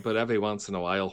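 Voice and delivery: half-Scottish, half-Alabama accent; slipping Scottish accent. Shown as a demonstration. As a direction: let a touch of Scottish drop out. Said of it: "your Scottish just there was like Cage's Alabama".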